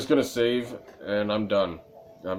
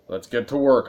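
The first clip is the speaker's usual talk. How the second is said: louder "Let's get to work." punched on "work"; pointed eagerness; 2 semitones higher, 5 dB louder than usual. Shown as a demonstration. Streamer answering a character to end the scene, pushy. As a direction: hurry the game along. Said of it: "answering it with the most, like, let's get the fucking work".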